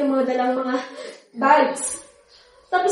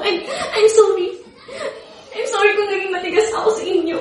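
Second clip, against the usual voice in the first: higher, laughing through tears; tearful apology; 4 semitones higher than usual. Acted. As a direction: apologise as it breaks. (umiiyak na paghingi ng tawad)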